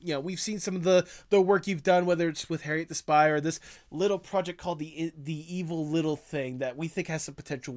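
big shot producer. Pretend. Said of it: "I come up to you and I'm like".

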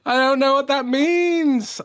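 high, hammed-up seductive voice, laughing at the end; sexy Valentine's Day accent. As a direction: ham up a sexy lover voice. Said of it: "my Valentine's Day accent".

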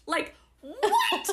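high, loud laughing outburst; laughing disbelief. Real, not acted. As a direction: laugh through the question.

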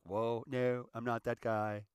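a hint of a sheepish happy-go-lucky guy; mock protest. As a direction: protest his innocence with a grin. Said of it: "I'm like".

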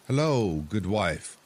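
calls a greeting across; calling out. Acted. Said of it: "called the fisherman".

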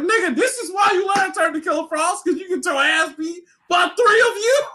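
high, whiny furious shout; mad outburst. Retold or imitated. Fan ranting at Barry over Killer Frost, high angry shout. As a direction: rant at the character, near crying. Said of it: "I was so mad".

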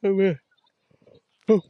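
talking through a yawn; a long tired yawn. Real, not acted. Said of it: "Don't know why I'm yawning so much".

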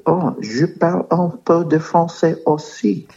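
put-on high, showy French accent. Telling the boy he speaks some French, mock French accent. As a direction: lay the French accent on thick. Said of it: "Just throwing a little French accent on it".

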